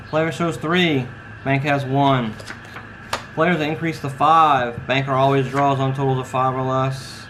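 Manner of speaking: slow, drawn-out dealer call; casino croupier. Acted. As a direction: announce the hand like a baccarat dealer. Dealer calls the baccarat hand.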